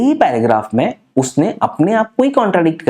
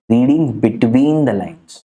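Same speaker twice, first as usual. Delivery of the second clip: slow drawn-out phrase; 4 semitones lower, much slower than usual. Shown as a demonstration. Key phrase stressed slowly.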